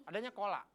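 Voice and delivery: kola for sekolah, first syllables dropped; Bekasi clipped word. Shown as a demonstration. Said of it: "di Bekasi tuh nggak ada sekolah".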